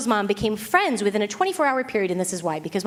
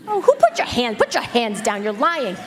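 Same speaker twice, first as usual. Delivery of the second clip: surprised teasing. Real, not acted. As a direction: catch the audience out with a laugh. Teasing hand-raisers in audience.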